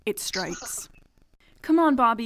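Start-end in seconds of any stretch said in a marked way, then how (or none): 1.6-2.2 a touch of a yell, louder; mild mock yell. A narrator's reading. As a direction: call out to Bobby over the wind. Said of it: "yelled Kendall".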